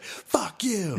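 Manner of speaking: high breathy whispered curse; whispered mock retort. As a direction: hiss it up high. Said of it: "And she was like".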